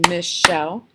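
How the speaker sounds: name split into two beats, "Michelle"; syllable by syllable. Shown as a demonstration. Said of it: "so it had two syllables".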